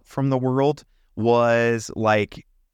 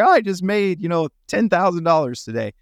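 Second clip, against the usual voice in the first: mock bragging excitement; 4 semitones higher than usual. Mocking live streamers in bull market.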